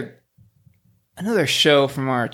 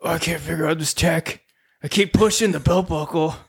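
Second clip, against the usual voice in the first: Gerald the bumbling Red Ranger. Acted. Gerald the Red Ranger baffled by his belt buckle, whining. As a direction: play the confused Ranger fumbling the tech. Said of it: "He's like".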